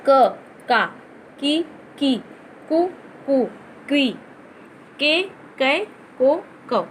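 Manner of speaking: क का की कु के कै को कौ, each clearly spoken; reciting syllables. Shown as a demonstration. Teacher drilling क syllables for pupils, clear recitation. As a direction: sound out each matra on क. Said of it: "जैसे कि".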